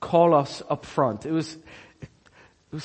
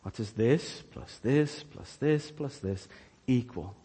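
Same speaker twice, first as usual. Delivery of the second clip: teacher coaxing; 5 semitones lower, 7 dB quieter than usual. Retold or imitated. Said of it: "she wants me to give the right answer".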